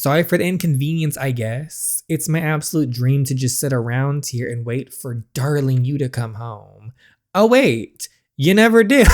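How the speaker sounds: jab at the absent husband; sarcastic wife. Acted. Cerise mocking Sawyer for never coming home, sarcastic.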